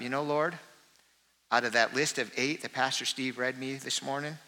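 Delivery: a quiet, broken-down plea for forgiveness; sorrowful confession. Pretend. Congregant's voiced confession prayer.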